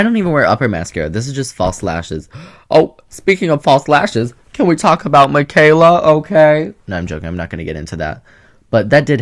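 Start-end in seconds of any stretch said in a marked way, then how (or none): 2.7-6.7 gossip tease. Acted. Gossipy teaser about a controversy.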